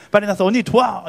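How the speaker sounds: scolding order. Retold or imitated. Imagined Jesus ordering Mary to help, mock scolding. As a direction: act out a brisk telling-off.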